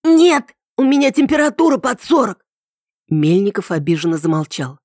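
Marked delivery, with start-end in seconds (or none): 0.0-2.4 high-pitched alarmed yell. A narrator's reading. Ритка puts off Мельников's visit, yelling. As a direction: yell it to keep him away. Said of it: "и заорала".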